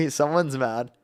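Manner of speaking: sarcastic put-on streamer voice; mock agreement in the show voice. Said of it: "I'm done with the voice".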